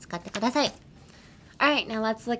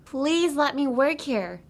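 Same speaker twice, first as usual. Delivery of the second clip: slow, louder teacher read; slow model line; 8 semitones higher, 5 dB louder, slower than usual. Shown as a demonstration. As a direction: say it slowly and clearly for learners. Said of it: "Repeat after me".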